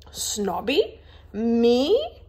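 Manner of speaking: confused disbelief. A narrator's reading. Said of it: "Augusta looked confused".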